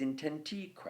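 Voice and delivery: "intentique" stressed on "ti"; inten-TI-que, weight before the last syllable; stress on third syllable. Shown as a demonstration. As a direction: lean on the "ti" in "intentique". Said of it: "You're putting the stress on the intenti".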